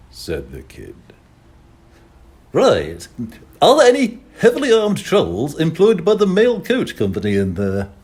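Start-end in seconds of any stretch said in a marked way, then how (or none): 2.5-7.9 calling out. Acted. Voice calling through rain.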